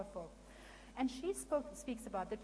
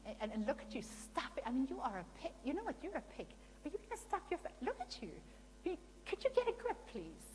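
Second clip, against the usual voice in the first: harsh mocking put-down; 3 semitones higher, faster than usual. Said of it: "And you're like".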